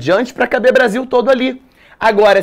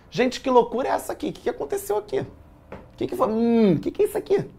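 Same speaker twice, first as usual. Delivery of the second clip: mock bewildered; 5 semitones higher, 7 dB quieter, much faster than usual. Mock bewilderment at student sheet.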